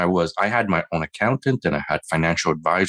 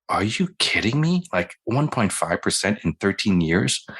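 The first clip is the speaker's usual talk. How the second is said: retold disbelief; 2 semitones higher than usual. Reacting to 1.5 percent return.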